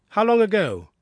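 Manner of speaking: keen detective pressing for facts; eager question. Acted. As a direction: pounce on the question.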